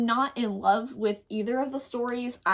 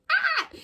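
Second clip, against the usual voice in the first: short high-pitched squeal of delight; high, giddy yelp; excited squeal. Real, not acted. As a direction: let out a little fangirl squeal. Gushing over book she loves.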